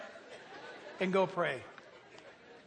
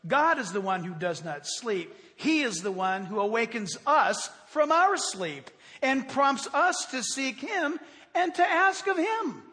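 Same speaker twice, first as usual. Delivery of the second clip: slow, emphatic reading aloud; weighty quotation; slower than usual. Real, not acted. Preacher reading a theologian on prayer, slow weighty delivery. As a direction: measure it out phrase by phrase with firm emphasis.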